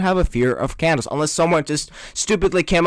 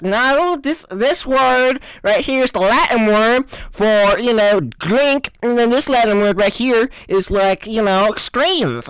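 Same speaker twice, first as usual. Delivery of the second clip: mock know-it-all; 5 semitones higher than usual. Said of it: "they're like".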